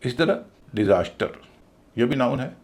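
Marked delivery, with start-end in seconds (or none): 0.8-1.4 डिजास्टर as di-ZAS-ter; second-syllable stress. Shown as a demonstration. Teacher giving an exception, डिजास्टर stressed in the middle. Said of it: "इसमें भी दूसरे पर stress है".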